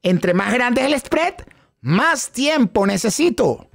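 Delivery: slow, drawn-out echo of the phrase; slow chanted echo; echoed repeat line. Shown as a demonstration. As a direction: repeat the phrase slowly, like the class. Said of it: "digan detrás de mí".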